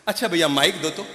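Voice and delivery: ordinary delivery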